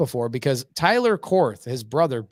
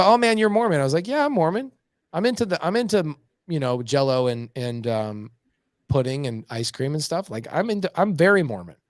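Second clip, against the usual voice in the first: joking Mormon bit; 2 semitones higher than usual. Retold or imitated. Answering people who ask if he's Mormon, playfully hammed up. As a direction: ham up being Mormon. Jokey retort about being Mormon.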